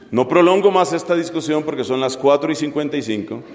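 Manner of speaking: lightly acted, low-pitched formal rebuttal; mock-reasonable parent. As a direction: argue the absurd case with a straight delivery. Plays a yelling parent answering her.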